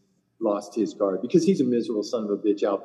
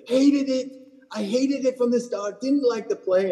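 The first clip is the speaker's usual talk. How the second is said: much higher, louder whining complaint; whiny golfer; 12 semitones higher, 3 dB louder than usual. Retold or imitated. Imitating the sulking golfer whining after his bad shot. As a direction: whine it high like a sulking player. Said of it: "He's like".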